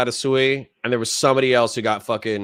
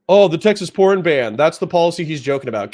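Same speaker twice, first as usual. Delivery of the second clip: a higher, faster, mock-smug take on a chatter; 4 semitones higher, 4 dB louder than usual. Streamer mocking a chat comment in a higher, faster voice. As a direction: lightly sneer it, quick and pompous. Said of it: "why do me dirty with the high voice".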